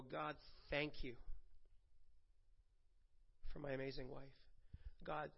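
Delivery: softly grateful prayer. Retold or imitated. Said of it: "I will look at her and I will go".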